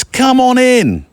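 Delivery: high, drawn-out singsong invitation; imitated friendly welcome. Singer inviting strangers into the kitchen, high welcoming call. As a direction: call them in, pitched right up and stretched.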